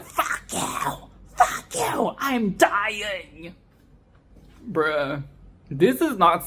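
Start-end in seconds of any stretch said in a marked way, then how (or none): 0.0-3.5 mock dying gangster. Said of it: "Orange immediately afterwards is like".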